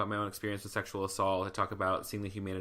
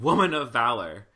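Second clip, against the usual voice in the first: loud, proclaiming church call; big Pentecostal pulpit voice; Pentecostal preacher; 2 semitones higher, 9 dB louder than usual. Retold or imitated. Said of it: "full, like, Pentecostal Rachel Held Evans".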